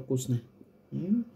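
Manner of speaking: chewing while talking; talking around food; mouth full. Real, not acted. Seen 3: white onion forked into mouth at 0.6s, chewing through 1.5s.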